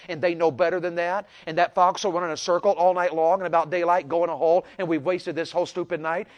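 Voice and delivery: a mildly indignant imitation of grandpa's tirade; grandfather's retold anger. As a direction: play grandpa's grievance, leaning harder as it goes. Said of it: "My papa got so mad because he said".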